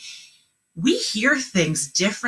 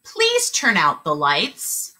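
slow and clear; slow model sentence; slower than usual. Shown as a demonstration. Teacher modeling the last sentence, slow and clear. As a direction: model it slowly. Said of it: "Last one".

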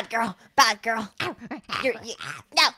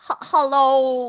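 drawn-out British hello; British accent; 4 semitones lower, slower than usual. Shown as a demonstration. Co-host showing all the British they know, British accent. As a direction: try a slow British greeting. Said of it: "all I know is British".

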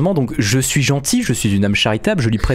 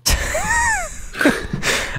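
high squeal; 3 dB quieter than usual. Real, not acted. Wordless outburst before reading the map.

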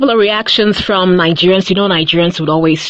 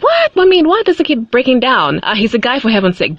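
surprised; 5 semitones higher, faster than usual. Retold or imitated. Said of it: "I was, like, surprised".

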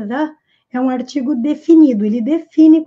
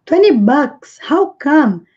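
a bit louder, startled question; a teacher acting shock at a price; surprised; 4 dB louder, slower than usual. Shown as a demonstration. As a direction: react as if the price shocks you. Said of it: "Ele tá demonstrando surpresa".

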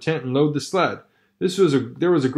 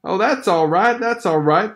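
hasty meek reply; 5 semitones higher than usual. Acted. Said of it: "the man hastened meekly to say".

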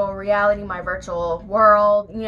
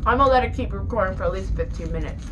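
mouth full; faster than usual. Real, not acted. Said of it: "Sorry if I'm chewing and talking with my mouth open".

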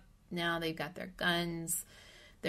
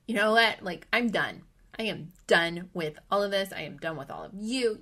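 louder, exasperated I'm done; fed-up outburst; 7 dB louder than usual. Retold or imitated. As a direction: blurt it out, sick of everything. Fed up with beetles at night.

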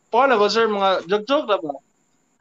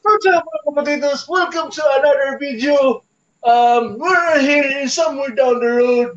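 vlogger impression; 5 semitones higher than usual. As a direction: overdo the cheery YouTuber opening.

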